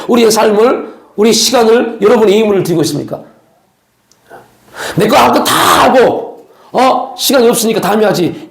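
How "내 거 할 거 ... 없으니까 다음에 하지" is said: lazy believer. Retold or imitated. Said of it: "이렇게 하고 있지 않습니까?".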